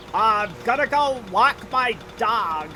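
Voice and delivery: mock general American accent, slow; slow imitation of other Americans' accent; other people's accent. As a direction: drag out an exaggerated outsider's American accent. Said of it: "What do you people say?".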